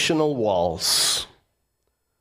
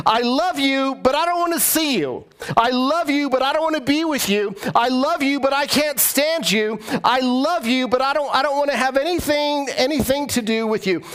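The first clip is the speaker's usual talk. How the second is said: mock grudging lover; 8 semitones higher than usual. Preacher voicing selfish conditional love.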